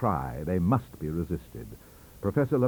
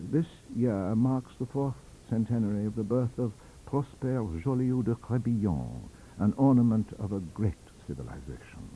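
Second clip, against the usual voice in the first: measured. Acted. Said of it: "the voice of reason, of taste, of moderation".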